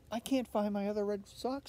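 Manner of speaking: a hint of a fussy young pig; Olivia complaining. Olivia tells her mother she lost her sock, mildly whiny. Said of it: "said Olivia".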